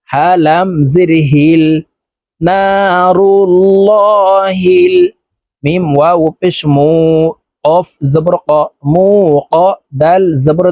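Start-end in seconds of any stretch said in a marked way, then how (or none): 2.4-5.0 নারুল্লাহিল with a thick, full lam in Allah; heavy lam. Shown as a demonstration. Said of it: "ল অর্থাৎ মোটা করে পড়ব". (মোটা লাম উচ্চারণ)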